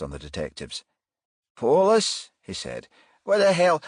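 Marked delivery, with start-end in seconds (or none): 1.6-3.8 startled. Acted. Son startled by police.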